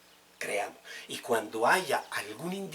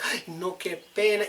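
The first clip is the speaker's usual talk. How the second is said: embarrassed guest; 6 semitones higher, 3 dB louder than usual. Retold or imitated. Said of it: "dos horas".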